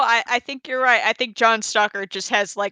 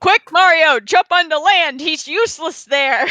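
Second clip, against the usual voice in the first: mock urgent call; 7 semitones higher, 3 dB louder than usual. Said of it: "And I'm like".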